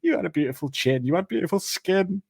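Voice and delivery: a hint of unhinged self-talk; muttering to himself. Killer sat in the mess talking to himself, deranged muttering. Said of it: "he's just muttering to himself".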